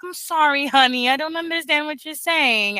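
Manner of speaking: mother soothing her little son; gentle apology to son. Retold or imitated. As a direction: gently tell a toddler you don't follow. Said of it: "I'm like".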